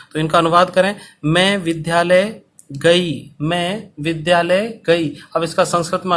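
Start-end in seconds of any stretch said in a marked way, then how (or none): 1.2-3.3 slow, with मैं leaned on; first slow dictation take. Shown as a demonstration. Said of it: "धीरे धीरे बोल रहा हूँ". 3.4-5.1 slow, with विद्यालय leaned on; second slow dictation take; slow dictation repeat. Shown as a demonstration. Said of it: "धीरे धीरे बोल रहा हूँ".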